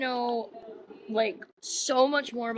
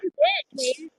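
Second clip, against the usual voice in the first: emphatic insistence. Real, not acted. Insisting to Dave he saved her, emphatic. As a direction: insist hard, overriding his denial.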